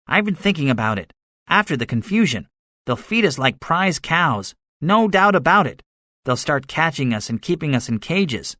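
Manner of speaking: gunner predicting doom. A narrator's reading.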